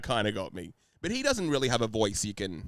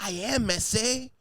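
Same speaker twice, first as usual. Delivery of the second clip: cholo voice; 11 semitones higher, 4 dB louder, slower than usual. Pretend. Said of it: "Jesus is just a cholo".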